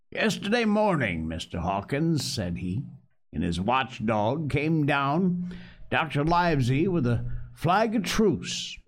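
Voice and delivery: courtly and slowed, a touch over-polite; gracious tones. Acted. Pirate cook tells the captive boy the news, mock gracious. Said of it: "his most gracious tones".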